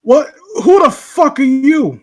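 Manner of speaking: loud, high-pitched shock; startled outburst. Acted. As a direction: demand it in loud alarm. Startled character answers mysterious voice.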